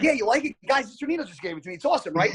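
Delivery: high, chirpy bragging about the shirt; proud kid. Retold or imitated. Knocked-out kid shows off his gift shirt, high and chipper. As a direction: show off the new shirt happily. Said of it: "He's like".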